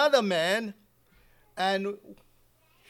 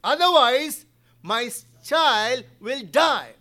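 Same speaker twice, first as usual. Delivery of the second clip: urgent demand; 7 dB louder, slower than usual. Retold or imitated. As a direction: order him down in a hurry. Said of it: "You said".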